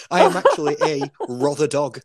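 laughing, mock-indignant correction; amused protest. Real, not acted. Amused protest at Scottish mix-up.

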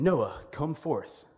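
slow, stretched-out summons, a bit high; mysterious calling voice. Retold or imitated. Retelling the voice that calls the sleeping boy, slow calling voice. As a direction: draw the call out like a voice from above. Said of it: "he hears it again".

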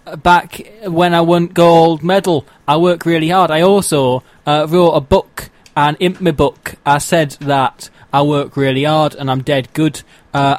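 put-on light Sheffield accent; a hint of Northern English. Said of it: "she's got a Northern accent".

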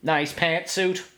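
slow put-on alien voice; campy Martian compliment, slow. Shown as a demonstration. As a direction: drawl it like a deadpan Martian. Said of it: "Martian accent is".

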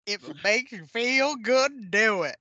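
slow, shrugging delivery; indifferent drawl. Retold or imitated. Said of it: "I say that line all the time".

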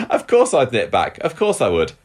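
lightly voiced actress quote; a hint of Catherine's chirpy voice; Catherine impression. Shown as a demonstration. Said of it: "can you do a Catherine".

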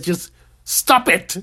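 slow, calm, matter-of-fact delivery; deadpan therapist. Retold or imitated. Therapist gives his patient the cure, slow and deadpan. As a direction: lay down the verdict slowly and calmly. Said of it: "And he says".

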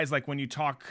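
creaky low voice demo; vocal fry. Shown as a demonstration. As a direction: speak in a creaky drag. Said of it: "talk kinda like this".

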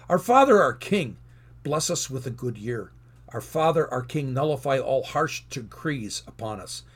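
prayerful recitation, each "Our Father" lifted; reading a prayer aloud. Acted. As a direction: read the Hebrew prayer lines with reverence. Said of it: "Let me just read a few lines".

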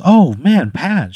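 high, loud, grateful witch voice. Acted. The witch greeting Pat under the overpass, high and relieved.

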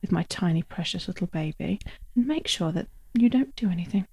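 soft, low, steady protective resolve; quiet determination. Retold or imitated. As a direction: murmur it like a fierce protective mother. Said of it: "But I was like".

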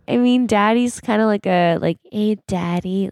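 put-on high childish voice. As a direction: play a young kid talking to dad. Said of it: "I'm going to play the child".

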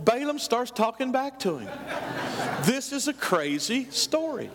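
chuckling at how absurd the story is; laughing. Real, not acted. Preacher amused by crazy story.

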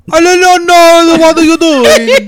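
high, loud, drawn-out mock Hispanic accent; bad Hispanic accent. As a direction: wail it in a terrible Hispanic accent. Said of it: "the worst Hispanic accent".

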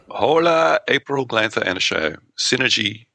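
lively reading from a written letter; email read-out. Real, not acted. Co-host reading email three from Sin, reading aloud. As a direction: read out the listener's message to the audience.

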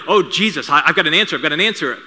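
a touch of impetuous Peter jumping in; eager blurting. Retold or imitated.

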